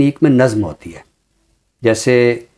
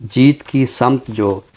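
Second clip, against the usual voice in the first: slowed repeat of the verse line; poem recitation. Acted. Poet repeating his line for the admiring host, slowed and savouring. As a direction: linger on the line as you repeat it.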